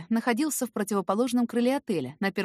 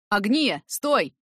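calling out; 3 semitones higher, 6 dB louder, much slower than usual. A narrator's reading. Eric calling after her.

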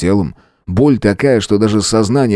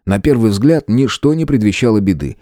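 ordinary delivery

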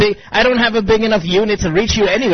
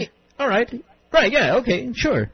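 shrugging indifference; 5 semitones higher than usual. Retold or imitated. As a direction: toss it off as if it doesn't matter. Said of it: "But if she doesn't want to".

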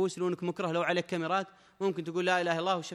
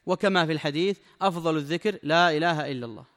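formal text reading; 5 dB louder than usual. Acted. Reads the sheikh's text aloud.

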